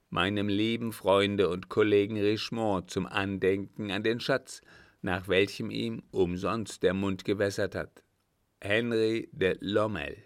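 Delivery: measured reading of a note; reading aloud. A narrator's reading. Count reading the note aloud to the captain. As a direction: read it out clearly. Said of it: "las laut die Worte".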